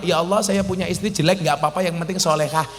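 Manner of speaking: timid prayer asking for too little; wrong prayer. Shown as a demonstration. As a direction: rattle off a meek minimal wish. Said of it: "Ah, salah".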